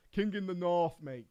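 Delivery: badly attempted northern English accent; poor northern accent. Streamer fails at "King in the North", badly faked northern accent. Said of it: "I can't even do a northern accent".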